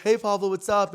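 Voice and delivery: high, loud friendly hail; imitated group greeting. Friends in the car greeting him, imitated excitement.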